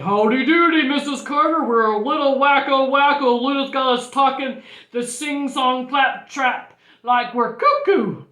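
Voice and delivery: a hint of a hearty principal; jaunty principal. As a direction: announce it with a touch of comic bustle. Voices the principal.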